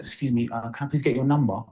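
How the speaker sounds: playing up an Australian accent to impress a girl; exaggerated Australian accent. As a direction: lay the Australian accent on to charm her. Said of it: "I kinda put an extra accent on".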